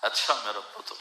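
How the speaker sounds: soft, resigned, broken words; hurt old father. Retold or imitated. Father answering his son's taunt, soft and resigned. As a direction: say it softly, swallowing the hurt. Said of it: "اور آگے باپ کہہ رہا تھا".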